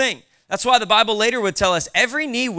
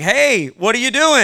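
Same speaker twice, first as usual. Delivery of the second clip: mock shout; 6 semitones higher, 6 dB louder than usual. Stranger taking your lawnmower.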